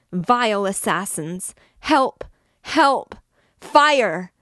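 high, loud screams of curses and for help; frantic screaming. A narrator's reading. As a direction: scream it out, words tumbling over each other. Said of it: "her voice now pierced the ear like a saw".

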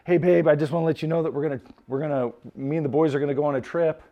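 a lightly voiced wise man breaking the news; casual husband. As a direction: toss it off lightly to your wife. Husband tells wife about trip.

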